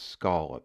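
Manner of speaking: proper singular scallop; Maine scallop. Shown as a demonstration. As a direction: say scallop without the s. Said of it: "it's not scallops".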